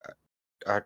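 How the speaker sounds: fancy lisping voice. Acted. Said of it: "I don't think you had a lisp before".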